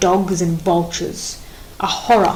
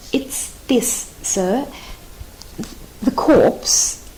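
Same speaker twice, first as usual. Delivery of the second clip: whispered, much softer; fearful whisper; 3 semitones higher, 4 dB quieter, much slower than usual. Acted. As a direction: hardly dare to say it. Sentry dreads reporting news.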